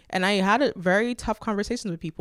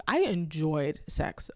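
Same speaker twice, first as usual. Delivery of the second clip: laughing slowly; 2 semitones lower, much slower than usual. Real, not acted. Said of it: "laughing at own confession".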